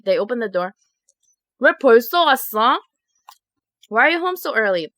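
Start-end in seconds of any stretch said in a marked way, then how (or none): 1.6-4.9 quick, puzzled parent in Korean; surprised parent. Retold or imitated. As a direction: fire off the question fast, like a startled mom. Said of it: "They're like".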